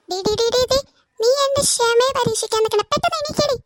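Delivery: sharp rising scolding; impatient scolding. Acted. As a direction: lose patience with her. Mother losing patience.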